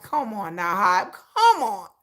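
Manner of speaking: slow, whiny plea with a catch of crying; half-joking pleading with the company; mock begging. Fan pleading with Hype to avoid scandal, whimpering mock beg. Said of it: "I'm begging Hype".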